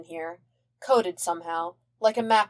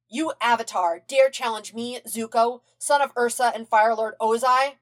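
imperious princess; 4 semitones higher than usual. Acted. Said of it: "channel his inner Azula".

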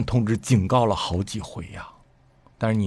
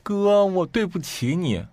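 higher, slow, imitated tearful plea; imitating crying; 10 semitones higher, slower than usual. Sister crying to her brother on the phone, imitated tears. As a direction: mimic her sobbing apology. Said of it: "她就哭说".

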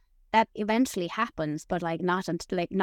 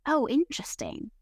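lightly imitating teacher; 6 semitones higher than usual. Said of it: "Tommy says it as well".

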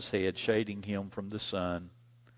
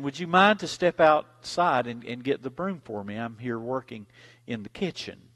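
mama asking again; 2 semitones higher, 6 dB louder than usual. Retold or imitated.

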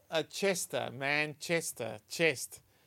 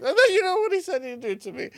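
high, loud Yorkshire indignation; Yorkshire accent; 9 dB louder than usual. Acted. Wife tells her husband of the next insult, Yorkshire accent. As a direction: build the wife's complaint in broad Yorkshire. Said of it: "the Yorkshire accent really makes it".

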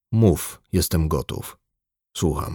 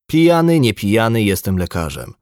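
outburst; 2 semitones higher, 4 dB louder than usual. Acted. Doctor snapping at his patient, loud and sharp. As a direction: fling the word back, then cool down.

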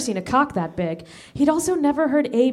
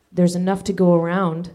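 amused low voice; 4 semitones lower than usual. Acted. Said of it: "said the farmhand, amused".

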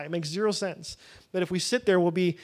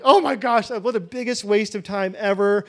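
frustrated exasperation; 2 semitones higher, 5 dB louder than usual. Retold or imitated. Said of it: "I was like".

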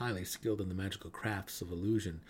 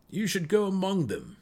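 lightly voiced gnome, higher and a touch louder; gnome offering; 10 semitones higher, 6 dB louder than usual. A narrator's reading. Gnome urges the drow to go out, gently offering. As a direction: gently urge him outside. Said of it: "Belware offered".

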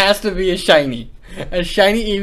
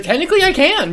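high-pitched imitation of a boss; retold pointed retort; 11 semitones higher than usual. Boss telling an employee he can be fired, retold pointed retort. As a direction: pitch it up, mock matter-of-fact.

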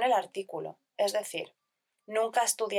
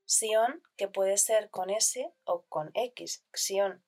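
slow spelling demo; much slower than usual. Shown as a demonstration. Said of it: "teacher spells sion with S or X".

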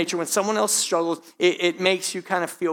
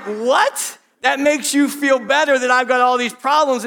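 higher, louder disbelieving retort; mock outrage at her answer; incredulous; 5 semitones higher, 4 dB louder than usual. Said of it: "And I'm like".

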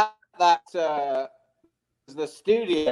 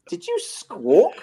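higher, louder, slowly drawn-out disbelief; incredulous question; 11 semitones higher, 5 dB louder, slower than usual. Retold or imitated. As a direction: stretch out the question, astonished. Retells his disbelieving question.

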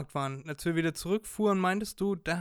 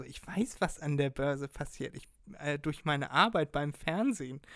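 slimy reading. Retold or imitated. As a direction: read it like a sleazy pitch. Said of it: "so richtig so ekelhaft vorgelesen".

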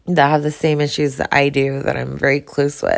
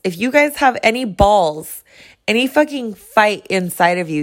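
heated, rising call to protest; angry rant; 4 semitones higher than usual. Real, not acted. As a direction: fire up the listeners, indignant. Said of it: "I'm just angry".

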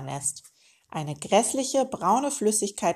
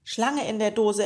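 grimly; 3 semitones higher, 3 dB louder than usual. Acted. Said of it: "erwiderte der Onkel grimmig".

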